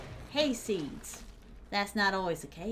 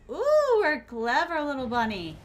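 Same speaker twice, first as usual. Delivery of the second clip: mock praise; 2 semitones higher, 5 dB louder than usual. Teasing a hiding survivor.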